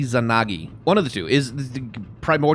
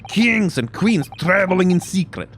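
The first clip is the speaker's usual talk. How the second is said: high, forceful Russian sailor voice; Russian accent; 3 semitones higher, 3 dB louder than usual. Acted. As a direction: list them grandly in a Russian accent. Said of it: "Russian accent when I'm trying to do that voice".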